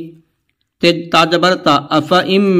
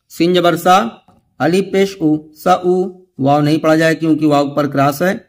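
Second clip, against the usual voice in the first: letter-by-letter recitation. Shown as a demonstration. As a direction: sound out every letter like a teacher drilling a class. Continues the spelling drill. (धीमी, सधी हुई तिलावत की हिज्जे वाली आवाज़)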